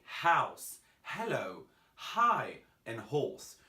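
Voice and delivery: house, hello, hi, horse, each with a clearly sounded H; pronounced H. Shown as a demonstration. Teacher shows learners the English H, sounded H in "house, hello, hi, and horse". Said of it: "important for you to pronounce your H".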